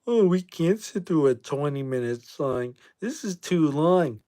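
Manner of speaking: a hint of a mocking kid's complaint; complaining kids. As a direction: lightly mimic impatient kids, dragging the end. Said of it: "they are just like".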